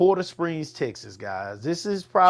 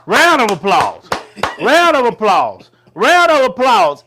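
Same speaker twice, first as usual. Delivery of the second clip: loud, building higher with each call; calling for applause; 6 semitones higher, 6 dB louder than usual. Real, not acted. Co-host cheers a partner's point, loud rallying call. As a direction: announce it like a hype man, louder and higher. Calls for applause after rant.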